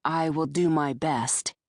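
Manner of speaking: slow and grave promise. Acted. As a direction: say it gravely, weighing each word. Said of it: "I said gravely".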